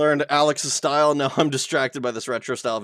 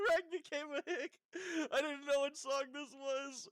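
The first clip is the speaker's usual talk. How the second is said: laughing; 11 semitones higher, 18 dB quieter than usual. Real, not acted. Laughing at a new song.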